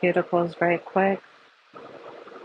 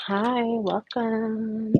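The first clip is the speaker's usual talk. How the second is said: whispering; 6 semitones higher, much slower than usual. Real, not acted. Whispered greeting opening the live.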